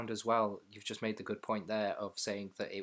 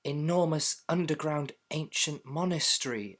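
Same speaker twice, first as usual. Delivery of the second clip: hammed-up awestruck, higher pitch; mock overacting; 5 semitones higher, 3 dB louder than usual. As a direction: oversell the line like a breathless discovery. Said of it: "and then it would be like".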